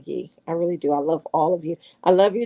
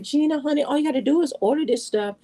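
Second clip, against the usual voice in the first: higher, sweet mock voice of a bossy friend; imitating Kiara; 8 semitones higher than usual. Friend telling Gina what to order, lightly voiced sweet and bossy. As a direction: play the friend coaching her, a touch higher. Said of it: "She be like".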